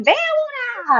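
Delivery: imitated yell. Mother calling child outside in Spanish, imitated yell. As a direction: call out like an alarmed mother, held back in volume. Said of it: "she yelled my name in Spanish".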